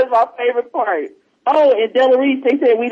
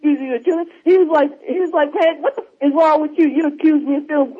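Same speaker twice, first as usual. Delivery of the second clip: quoting him; 5 semitones higher than usual. Retold or imitated. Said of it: "He's like".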